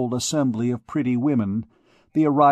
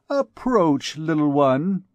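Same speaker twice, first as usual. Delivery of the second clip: higher, gracious command to a dancer; lady's summons; 3 semitones higher, slower than usual. Acted. Madame Eloi summoning the gypsy girl, gracious and lofty. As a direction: call her over like a noble dame. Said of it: "repeated with comical dignity little Bérengère".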